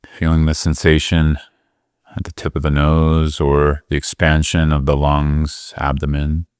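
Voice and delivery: unhurried meditation guidance with long pauses; guided meditation. Real, not acted. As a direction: gently guide them into the breath, leaving space between phrases.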